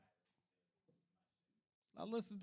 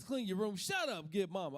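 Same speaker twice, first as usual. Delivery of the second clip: higher, louder stern commands; mock angry dad; barking dad orders; 5 semitones higher, 3 dB louder than usual. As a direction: order the kids around like a fed-up father. Dad ordering kids around.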